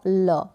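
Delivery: "ल" as a drawn-out l sound; teacher slowly demonstrating "ल"; letter sound. Shown as a demonstration. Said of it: "pronounce कर रहे हैं".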